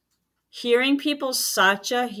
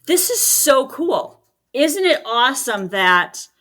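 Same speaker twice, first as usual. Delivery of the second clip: enthusiastic; 3 semitones higher, 4 dB louder, slower than usual. Shown as a demonstration. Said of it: "as opposed to saying".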